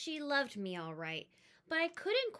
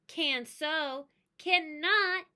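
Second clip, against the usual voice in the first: bickering back and forth; 5 semitones higher, 6 dB louder, slower than usual. Acted. Siblings bickering.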